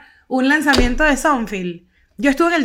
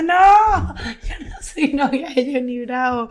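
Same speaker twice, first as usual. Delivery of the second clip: mock tearful child's protest, laughing through it; imitating crying child; 3 semitones higher, much slower than usual. Retelling how she cried as a child, mock sobbing. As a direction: play yourself as a little girl crying, half laughing. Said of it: "Y yo llorando".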